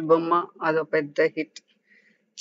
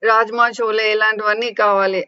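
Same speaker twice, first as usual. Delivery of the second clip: mock crying tantrum; 3 semitones higher, 4 dB louder than usual. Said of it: "అంటూ ఏడవటం start చేసింది".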